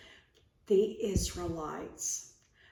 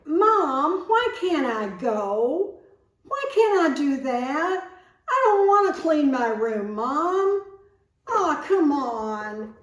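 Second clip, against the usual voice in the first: put-on whiny child arguing, higher and louder; loud pleading kid voice, higher; arguing loudly; 6 semitones higher, 9 dB louder than usual. Shown as a demonstration. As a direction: protest to Mom at full volume. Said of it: "Disputing is arguing loudly".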